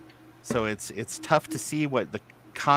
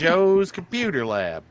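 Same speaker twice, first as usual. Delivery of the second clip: country singer narrator voice; 6 semitones higher, 3 dB louder than usual. Shown as a demonstration. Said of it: "you gotta deliver it like that".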